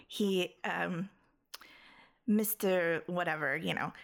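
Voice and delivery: low, slow, breathy stab at a British accent; half-hearted British reading, hushed and halting; barely-there British accent, drawn out almost to a whisper; British accent attempt. Shown as a demonstration. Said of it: "I'm sorry, is this your accent?".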